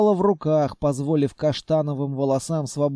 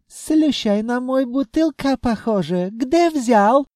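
put-on high, heavily accented djinn; djinn with accented Russian; 7 semitones higher, 3 dB louder than usual. A narrator's reading. Djinn asks where the treasury came from, eager.

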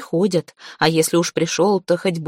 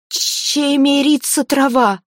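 high, strained, slow terrified answer; choked frightened cry; 8 semitones higher, slower than usual. Acted. Zateya gasps out the answer while being choked. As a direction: blurt it out with a throttled throat.

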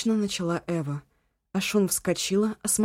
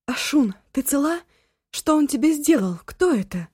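high, anxious questions; alarmed; 8 semitones higher, 5 dB louder than usual. A narrator's reading. Eva anxiously asking her friend if she is hurt. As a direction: rush the worried questions. Frightened friend rushing to victim.

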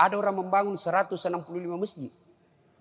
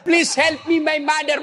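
higher, louder mock pleading in English; mock prayer; 7 semitones higher, 4 dB louder than usual. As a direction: ham up a desperate plea. (doa pura-pura memelas)

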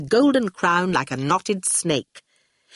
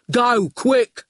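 heavy, higher urgent command; urgent goon; 5 semitones higher, 3 dB louder than usual. Acted. Goon jumps into the car, urgent. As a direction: order the driver away at once.

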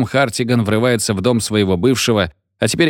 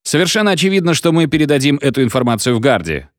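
radio host voice; 5 semitones higher, faster than usual. Acted. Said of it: "Джерри".

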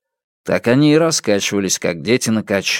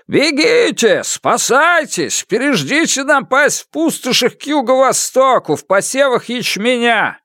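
high, urgent village crier calling out; urgent high call to flee; crier's warning call; 13 semitones higher than usual. Acted. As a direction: shout the warning to the whole village. Town crier calls out warning.

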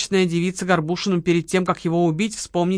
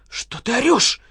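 indignant snap; 5 semitones higher than usual. Acted. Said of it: "вскинулась Лола".

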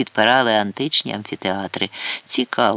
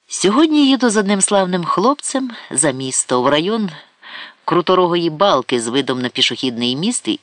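higher, coy boasting matron; Karapet's voice; 5 semitones higher than usual. Acted. Vain Karapet boasting to her visitor, coy and higher. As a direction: preen like a vain lady bragging about her suitor.

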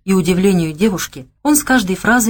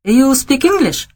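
slow, high amazed question in English; can't believe he speaks English; surprised question; 7 semitones higher, slower than usual. A narrator's reading. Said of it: "воскликнула она".

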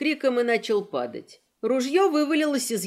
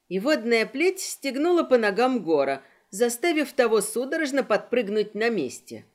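usual speaking voice

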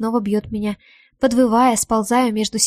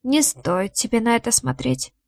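muffled, hollow voice. Acted. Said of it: "глухо говорит".

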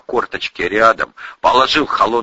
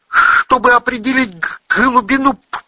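high, stammering explanation; high-voiced stutterer setting someone straight; cold explanation; 5 dB louder than usual. A narrator's reading. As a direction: explain curtly through a stutter. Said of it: "холодно пояснил Эдик".

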